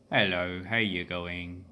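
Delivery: lightly imitated cultivated Australian; cultivated Australian accent. Shown as a demonstration. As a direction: put on an educated, moneyed Australian accent, taking it slowly. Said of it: "you've got the cultivated one".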